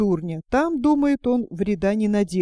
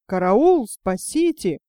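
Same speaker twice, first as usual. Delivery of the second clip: calling for help. Acted. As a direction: yell for help like a frightened fool. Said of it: "поднял крик". (испуганный крик о помощи, погромче)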